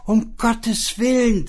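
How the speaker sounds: shrieking wife. Acted. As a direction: screech in panic at the attacker. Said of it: "zeterte und keifte sie".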